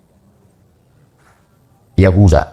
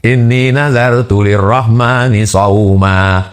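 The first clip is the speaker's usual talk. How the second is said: Quran recitation; slower than usual. Acted. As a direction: recite the verse with a slow melodic line. (tilawah Quran yang lambat dan bernada)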